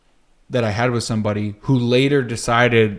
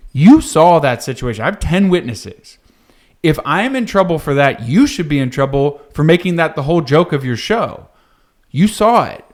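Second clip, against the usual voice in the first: indignant protest; 3 semitones higher, 4 dB louder than usual. Retold or imitated. Retelling his angry protest.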